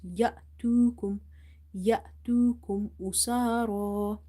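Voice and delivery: abrupt stop on the hamza in يأتوكم; يأتوكم with a sudden break at the hamza; sudden pause. Shown as a demonstration. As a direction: cut يأتوكم short after "ya", then resume. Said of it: "you give it a sudden pause".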